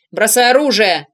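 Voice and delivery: loud command through a megaphone; megaphone shout. A narrator's reading. Police through megaphone order him to drop weapon, loud. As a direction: bark it like police on a loudhailer. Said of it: "прогремел над поляной усиленный мегафоном голос".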